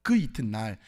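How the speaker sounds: measured reading of a Bible passage; scripture reading. Acted. Preacher reading the Samaritan parable to congregation, formal reading. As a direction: read scripture aloud to a congregation.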